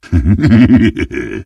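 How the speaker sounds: rapid wheedling chuckle; short gleeful snicker; villain chuckle. Acted. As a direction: giggle greedily to yourself. Character laughs between lines.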